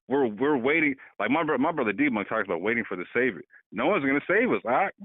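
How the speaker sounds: ordinary talk, nothing marked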